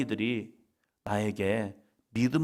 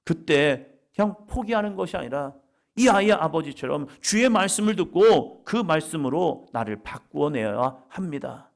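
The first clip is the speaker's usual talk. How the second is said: usual speaking voice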